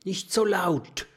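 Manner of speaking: high whisper; murmured. A narrator's reading. Professor warns the friends, whispering. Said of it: "raunt der Professor".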